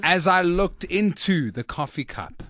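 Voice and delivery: measured, dramatic storytelling; slow down as the tale turns mysterious; deliberate mock-suspense narration, sinking at the end; story narration. Performs own opening of the story.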